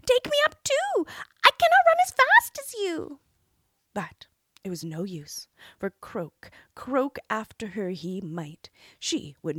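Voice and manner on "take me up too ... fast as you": high, loud croaky frog cry. A narrator's reading. Frog shouting after the princess, high and loud. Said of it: "cried the frog".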